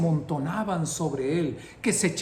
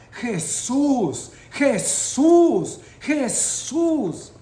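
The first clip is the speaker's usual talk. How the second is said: high, loud pleading shout; shouting louder; 7 semitones higher, 6 dB louder, much slower than usual. Retold or imitated. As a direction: cry the name out above the crowd. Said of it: "Gritó más fuerte". (grito más fuerte, agudo y fuerte)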